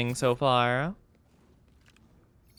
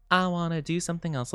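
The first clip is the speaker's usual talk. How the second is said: quick, quieter silly echo; 4 dB quieter, faster than usual. Pretend. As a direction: toss it off in a silly voice. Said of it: "repeats it in another voice".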